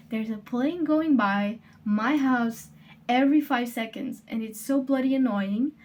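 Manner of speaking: ordinary delivery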